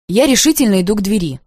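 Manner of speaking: ordinary delivery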